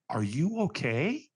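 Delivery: slow, drawn-out question; leaning-in check-in. Retold or imitated. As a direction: imitate someone slowly checking you are all right. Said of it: "like, you know, like this".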